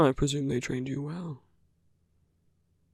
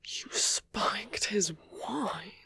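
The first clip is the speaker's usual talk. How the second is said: drawn out, higher pitched; slow disbelief; 5 semitones higher, 4 dB quieter, much slower than usual. Acted. Villain learning the hero drugged someone, slow disbelief. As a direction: say it slowly, word by word. Villain reacts to the hero's confession.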